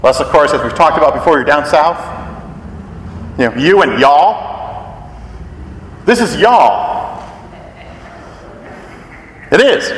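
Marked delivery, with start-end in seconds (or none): 3.4-7.2 southern y'all. Shown as a demonstration. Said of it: "you need that southern accent there".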